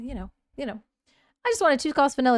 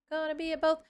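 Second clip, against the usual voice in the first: higher repeat; 6 semitones higher, faster than usual. Shown as a demonstration. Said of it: "repeats the phrase".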